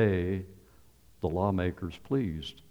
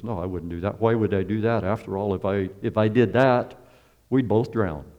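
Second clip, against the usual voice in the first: louder insistent pleading protest; scorpion insisting; 5 dB louder than usual. Acted. Scorpion louder as he insists to the frog he won't sting. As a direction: sell the lie with growing push.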